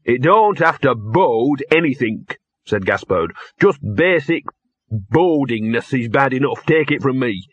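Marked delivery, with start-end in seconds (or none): 0.1-2.3 a touch of a grumbling talking dog; lightly voiced grumbling dog. Narrator voices the dog Gaspode. 3.6-7.5 a touch of a grumbling talking dog; lightly voiced grumbling dog. Narrator voices the dog Gaspode.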